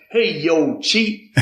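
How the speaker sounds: mock southern father's greeting, cheat up high with a laugh; imitating dad calling. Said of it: "he had that southern accent".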